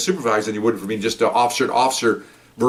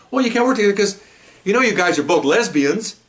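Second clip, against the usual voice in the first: high-pitched mock scolding; retold angry refusal; 10 semitones higher than usual. Sergeant refusing two officers, high mock scolding. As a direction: imitate an exasperated boss, pitched high.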